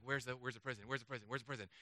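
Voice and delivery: low, hushed, repetitive asking; impatient mutter. Retold or imitated. Tourist hunting for Paul's prison, impatient low mutter. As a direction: mutter it over and over under your breath.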